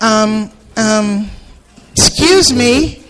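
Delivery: high, hesitant polite lady voice; timid lady. Retold or imitated. Nervous lady interrupting the comedian's prayer, high timid voice. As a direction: stretch out a nervous excuse me.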